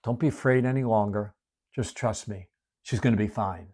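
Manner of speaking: quiet comforting promise; tender reassurance. Shown as a demonstration. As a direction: say it softly, like calming a frightened father.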